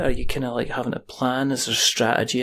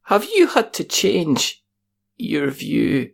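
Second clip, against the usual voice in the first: high voice; 2 semitones higher, slower than usual. Shown as a demonstration. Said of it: "we're all gonna go up an octave".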